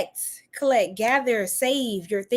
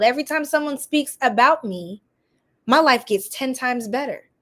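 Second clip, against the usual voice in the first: spoken affirmation. Shown as a demonstration. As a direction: declare each line like a vow. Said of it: "say, say it with me".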